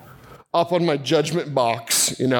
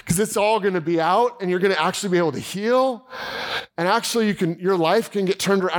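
cheering on; 3 semitones higher than usual. Retold or imitated. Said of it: "cheering this guy on".

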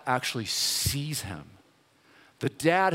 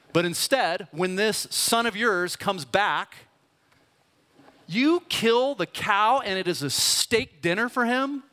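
bitter complaint; 3 semitones higher than usual. Retold or imitated. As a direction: let the grievance swell until it breaks. Older brother's bitter complaint to dad.

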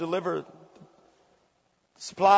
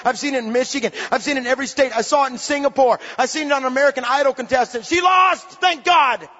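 loud, fervent preacher building to a shout; full-force preaching; 3 semitones higher, 3 dB louder than usual. Real, not acted. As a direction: preach it out hard to the crowd.

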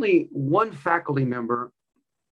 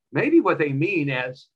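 slow, measured reply; 4 dB louder, much slower than usual. Retold or imitated. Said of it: "He says".

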